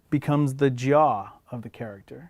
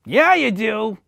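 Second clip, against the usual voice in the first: high puppet voice; 7 semitones higher, slower than usual. Acted. Other puppeteer voices Coretta.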